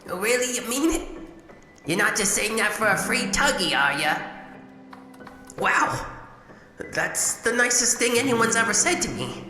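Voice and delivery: light up with delight; touched delight. Acted. Robot touched by a compliment.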